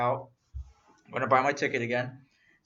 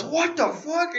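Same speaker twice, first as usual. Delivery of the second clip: high-pitched, louder incredulous outburst; mock disbelief; 13 semitones higher, 5 dB louder, much slower than usual. Retelling friend's reaction to the ticket seller knowing, incredulous. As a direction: squeal it in mock shock.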